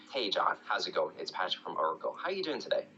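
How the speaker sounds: cool and assured, lifting on the question; calm but assertive. Shown as a demonstration. Cold caller greeting John, calm, assertive, not aggressive. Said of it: "I'm assertive, but I'm not aggressive".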